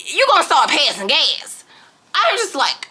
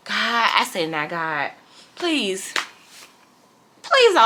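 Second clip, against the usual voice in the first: laughing prayer; 2 semitones lower than usual. Retold or imitated. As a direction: beg God through a laugh. Pleading prayer in car, laughing.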